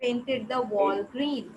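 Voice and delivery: slow, careful reading aloud; slow dictation. Shown as a demonstration. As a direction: read it out slowly for the class. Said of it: "teacher repeating student's words".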